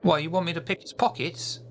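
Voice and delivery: high, eager urchin voice reporting back; street kid Peter. Acted. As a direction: chatter like a keen little spy. Child Peter continues.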